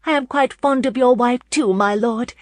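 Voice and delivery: high, lively lady's reply; light-hearted. A narrator's reading. Lauren answers her friend's husband, light-heartedly. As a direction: answer brightly in a lifted voice. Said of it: "laughing lightly".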